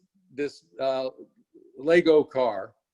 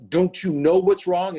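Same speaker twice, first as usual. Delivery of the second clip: put-on angry kid; 4 semitones higher, 5 dB louder than usual. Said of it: "this anger".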